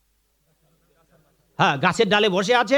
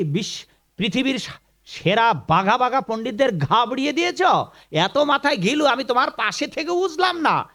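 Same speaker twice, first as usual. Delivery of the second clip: amazed; 3 semitones higher than usual. Retold or imitated. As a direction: act out an astonished wife marvelling at her husband. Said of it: "অবাক হয়ে বললেন".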